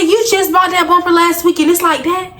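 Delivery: high-pitched disbelief; high, amazed reaction; incredulous. Retold or imitated. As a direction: squeal out the shock at the bumper. Reacting to bumper bought last week.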